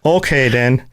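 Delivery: playful Minnesotan imitation; mock Minnesota accent; Midwestern accent. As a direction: echo it in a folksy Midwestern lilt. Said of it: "the Midwestern".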